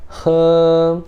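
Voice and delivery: he high, long and level; first-tone he. Shown as a demonstration. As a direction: hold he on one high, steady pitch. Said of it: "Primeiro tom também".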